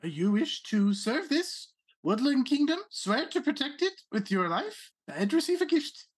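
a hint of a haughty rabbit noble; Rabbit Prince voice. Prince explains knighthood.

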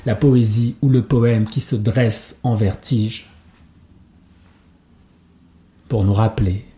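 measured spoken-word delivery with long pauses between lines; poetry recitation. Acted. Poet reciting verse about love and poetry to listeners, measured recitation. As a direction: recite it as verse, firm and deliberate, letting each phrase land. Recites a poem over music, then chats.

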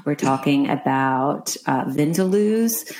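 light American accent; casual American accent. Shown as a demonstration. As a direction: keep the American accent going, breezy. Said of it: "Spot, spot on".

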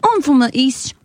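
East British accent. Shown as a demonstration. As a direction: attempt an East of England accent. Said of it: "different types of British accent".

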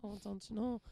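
put-on playful Wisconsin accent. Teasing the guest about home, a mock Wisconsin accent. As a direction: put on a light Wisconsin twang. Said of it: "I could do the accent".

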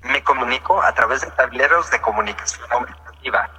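even computer text-to-speech voice; synthesized voice. Real, not acted. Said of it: "esta es una voz sintetizada".

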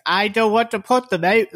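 high-pitched, put-on pleading; tearful begging woman. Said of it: "kept crying about her child".

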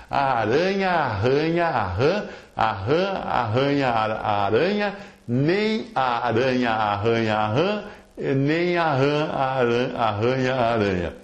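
slow, drawn-out tongue twister with long vowels; tongue-twister demo. Shown as a demonstration. Speaker teaching listeners a mock way of speaking in tongues, slow tongue-twister demo. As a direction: model the tongue twister slowly and deliberately, stretching the vowels. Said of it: "fale bem rápido essa frase".

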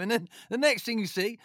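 normal talking voice

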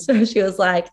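usual speaking voice

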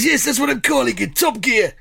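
high, plummy royal voice; King Charles impression. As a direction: pitch a TV show like the king. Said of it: "proper impression".

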